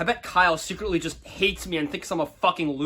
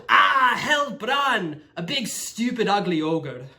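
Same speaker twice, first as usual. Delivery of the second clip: imitating scared people; 5 semitones higher, slower than usual. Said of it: "they go".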